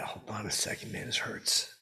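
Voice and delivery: hushed, hurting aside; pained whisper. Real, not acted. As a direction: whisper through a headache. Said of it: "I got a splitting headache".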